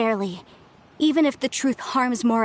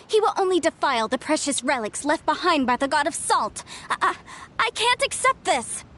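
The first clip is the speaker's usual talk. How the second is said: upset; 3 semitones higher than usual. Acted. Archaeologist upset about relics.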